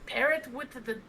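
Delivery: light Irish leprechaun lilt; leprechaun accent. Acted. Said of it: "You just sounded like a leprechaun".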